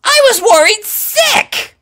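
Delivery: very high, loud outburst; worried sick. A narrator's reading. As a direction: vent pent-up worry. Rainbow venting her fear.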